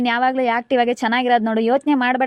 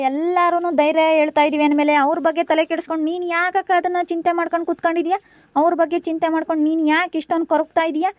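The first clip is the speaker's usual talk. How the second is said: raised-pitch, insistent remonstrating; exasperated scolding; 5 semitones higher than usual. Acted. Sibling chiding fretting elder sister, exasperated. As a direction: scold her out of concern, voice climbing higher.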